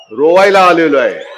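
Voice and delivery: loud repeated battle cry; rally shout. Acted. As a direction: shout each line to the crowd. Climax ending.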